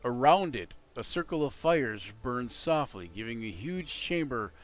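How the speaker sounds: lightly paced descriptive narration; game master scene setting. A narrator's reading. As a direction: set the scene, steady and evocative. Describes the dragon's cavern.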